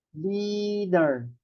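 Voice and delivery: "leader" drawn out, long LEE then der; slow teaching demo of "leader", long ee; stretched pronunciation. Shown as a demonstration. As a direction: stretch the first vowel of "leader". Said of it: "mas sounds kasi ng A".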